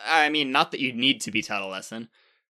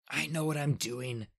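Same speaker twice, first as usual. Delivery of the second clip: hissed; 4 semitones higher, 4 dB quieter than usual. A narrator's reading. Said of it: "hissed Bacchus".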